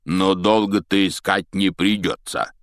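slow, smiling giant's voice; smiling Hagrid. Acted. Hagrid reassures Harry with a slow smile. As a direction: say it through a smile, slowly. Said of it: "улыбнулся в бороду лесник".

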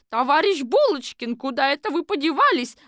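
high, loud call from a window. Acted. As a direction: shout for Bulochkin. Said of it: "с криком". (громкий высокий окрик из окна)

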